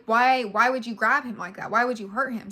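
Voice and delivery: loud, angry demand at the man who hurt her son; yelling why at him over the injured baby; retold yell at partner. Mother yelling at the man who hurt her baby, loud and angry.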